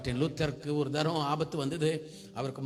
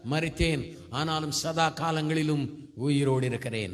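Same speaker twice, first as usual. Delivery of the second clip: slow, solemn verse reading; measured scripture quote; 3 dB louder than usual. Real, not acted. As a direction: recite the verse deliberately. (நிதானமா வசனம் சொல்லுதல்)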